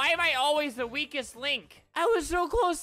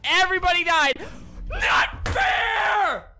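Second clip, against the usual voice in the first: angry yelling; 4 semitones higher, 5 dB louder, slower than usual. Real, not acted. Raging after losing game.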